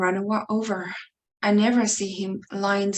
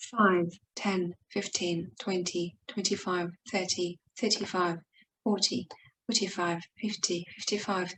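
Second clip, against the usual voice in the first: counting under breath; 6 dB quieter than usual. Acted. Counting to five hundred by fives.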